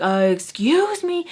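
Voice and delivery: high, drawn-out indignant call; super loud. Retold or imitated. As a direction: re-enact calling someone out, high and stretched. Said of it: "I was super loud".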